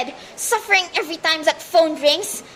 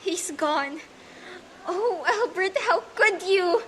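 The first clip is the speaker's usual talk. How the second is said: softer, hollow, to herself; quiet despair; 8 dB quieter, slower than usual. Acted. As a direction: barely voice the betrayal. Alone after husband's telegram.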